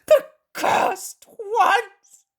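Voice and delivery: high, loud and slow; anguished swearing; bitter curse. A narrator's reading. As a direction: spit out the curse. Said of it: "And he swears".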